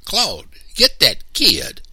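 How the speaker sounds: loud, high, slow holler; yelling. A narrator's reading. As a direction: bellow an order across the clearing. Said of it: "Mister Anderson yelled to the lumberman".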